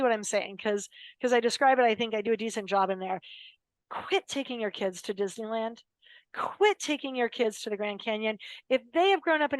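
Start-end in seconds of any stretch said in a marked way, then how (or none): 3.9-5.8 whispered advice. Real, not acted. Speaker confiding advice to parents in a whisper. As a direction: lean in and whisper it like a secret tip.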